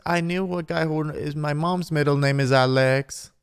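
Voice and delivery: lightly voiced giddy dater, a bit high; hint of amazed gushing over tiny coincidences; mock gushing daters. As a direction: imitate easily impressed reality-show daters. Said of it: "These people are talking through a pause and they're like".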